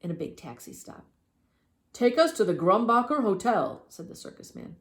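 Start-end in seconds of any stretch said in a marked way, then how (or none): 1.9-3.9 loud, high order; bossy showman voice; commanding showman. Acted. Circus man orders driver.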